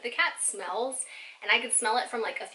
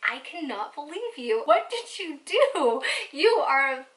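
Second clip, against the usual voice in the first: mock scolding; 4 semitones higher, 4 dB louder, slower than usual. Scolding the cat.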